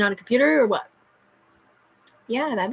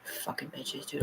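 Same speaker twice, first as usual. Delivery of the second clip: a bitter whispered curse, much softer; 16 dB quieter, slower than usual. Real, not acted. Ranting at unseen watchers, whispering a curse. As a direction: hiss the curse under your breath. Cursing under breath while ranting.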